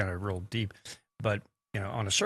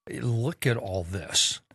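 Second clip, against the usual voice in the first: amazed European shopper; 7 semitones higher than usual. Retold or imitated. European visitor marvelling at Walmart aisles, excited rising voice. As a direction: play a tourist gawking at a Walmart aisle, delight building. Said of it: "they go".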